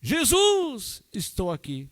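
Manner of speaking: high shouted Jesus, then dropping back; shouted call. Retold or imitated. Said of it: "ele dizia".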